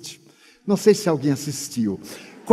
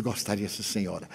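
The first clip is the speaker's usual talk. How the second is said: meek soft yes; 10 semitones lower, 13 dB quieter than usual. Retold or imitated. Meek acceptance, hostess offers rest.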